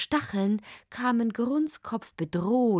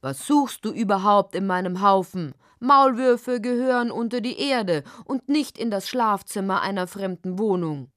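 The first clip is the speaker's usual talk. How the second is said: unmoved snap. Acted. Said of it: "schnappte ungerührt".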